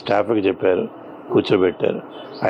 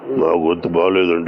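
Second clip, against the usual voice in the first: lower, husky-throated imitation of an old leader with a bad throat; NT Rama Rao mimicry; 5 semitones lower than usual. Anchor mimics NT Rama Rao's sore voice to the interviewer, lower and husky. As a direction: mimic the leader croaking that his voice is unwell. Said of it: "mimicry కూడా చేస్తున్నారు మీరు".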